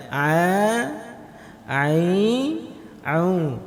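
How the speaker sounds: A, ai, au with a thin ain from mid-throat; teacher drilling a, ai, au; light ain. Shown as a demonstration. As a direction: keep the ain light, tongue slightly back. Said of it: "Mudah pengucapannya".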